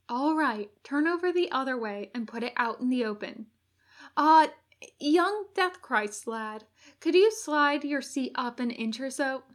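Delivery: gently bossy helper giving practical directions; fussing angel. Acted. Angel settling the injured Crowley into place, lightly fussing.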